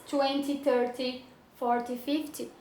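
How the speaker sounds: twenty thirty forty fifty with weight on the start; stress on first syllable. Shown as a demonstration. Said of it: "a força não tá no final".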